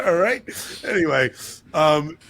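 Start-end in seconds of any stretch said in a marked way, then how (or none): 0.0-0.4 slow, laughing through it; giggling at his own word. Real, not acted. Host laughing as he repeats his odd word. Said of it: "I just said hoopla".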